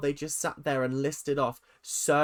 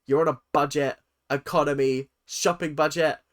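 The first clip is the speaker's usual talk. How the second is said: louder, sassy scolding; sassy Big Brother; 4 dB louder than usual. Retold or imitated. Big Brother sassily refusing sourdough, louder. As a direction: play a sassy voice refusing a treat. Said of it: "Big Brother was like".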